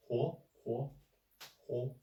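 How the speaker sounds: "huo" rising like a question; second tone. Shown as a demonstration. Teacher drills the syllable for learners, questioning rising tone. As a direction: say "huo" in Mandarin second tone, pitch climbing. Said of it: "the second, like, question".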